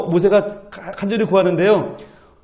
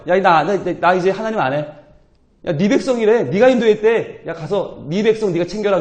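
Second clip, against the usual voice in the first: sulking God. Acted. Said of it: "그러시는 거예요".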